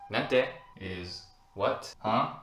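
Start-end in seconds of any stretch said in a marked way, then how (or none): 0.1-0.5 Nante? fired out louder, rising; sharp casual what. Shown as a demonstration. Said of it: "Next one". 2.0-2.3 a loud rising Huh?; angry huh. Shown as a demonstration. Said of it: "It sounds like you're angry".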